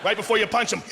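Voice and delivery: ordinary delivery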